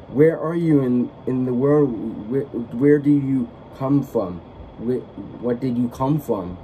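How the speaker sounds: drawn-out and lightly put-on, a delighted old aunt; aunt's voice. Aunt welcoming Dorothy home, slow amazed put-on voice.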